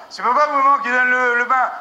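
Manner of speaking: loud teasing question; parent asking. Acted. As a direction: ask it loud and playful. Parent asking who gives bath.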